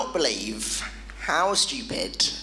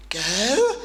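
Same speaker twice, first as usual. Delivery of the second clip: put-on English accent; 6 semitones higher than usual. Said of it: "Try an English accent".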